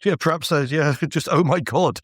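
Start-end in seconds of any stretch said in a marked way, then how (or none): 1.3-2.0 playfully startled exclamation; lightly acted astonishment; mock surprise. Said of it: "just a permanent state of surprise".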